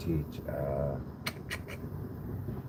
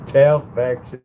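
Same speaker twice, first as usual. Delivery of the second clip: excited exclaim; 6 semitones higher, 9 dB louder than usual. Real, not acted. Exclaiming praise of food.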